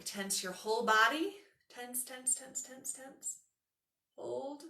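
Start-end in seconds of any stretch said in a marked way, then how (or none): 1.7-4.6 hushed urging. Shown as a demonstration. Yoga teacher urging students to tense the whole body, hushed urging. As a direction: urge the squeeze on softly, pitch raised.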